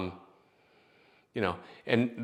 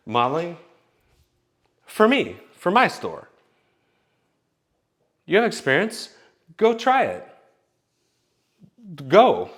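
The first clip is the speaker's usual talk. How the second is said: much higher, loud pushy grandma; grandma urging; 7 semitones higher, 6 dB louder than usual. Retold or imitated. Grandma tells grandson to go try modeling, high and loud. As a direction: shove him out the door as grandma.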